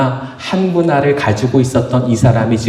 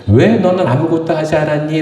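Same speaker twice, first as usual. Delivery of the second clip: mild rebuke, pitched up on the opening 왜; lightly acted master telling off a servant; mild scolding; 4 semitones higher than usual. Master questions the idle servant, mildly scolding. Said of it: "그러면서 야단을 쳐요".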